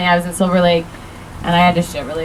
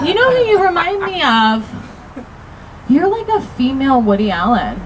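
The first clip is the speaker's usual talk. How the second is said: lightly put-on voice, starting high; high opening, easing down; mocking impression of someone hated; 5 semitones higher than usual. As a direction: imitate an annoying acquaintance's observation. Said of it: "do some impressions of people I hate".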